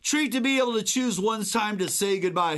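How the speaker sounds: mock Trump voice. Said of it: "sounds like something he would".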